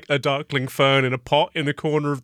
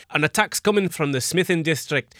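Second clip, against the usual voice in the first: slightly raised pitch, reporting voice; lightly voiced guard giving a report; 4 semitones higher than usual. Guards saluting and reporting an attack, lightly acted voice. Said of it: "guards salute and say".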